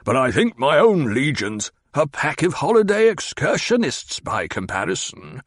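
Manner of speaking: snarled. Acted. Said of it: "Hawat snarled".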